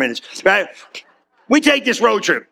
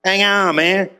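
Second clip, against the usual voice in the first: laid-back Jesus; 3 semitones lower, slower than usual. Retold or imitated. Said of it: "My Jesus, straight street".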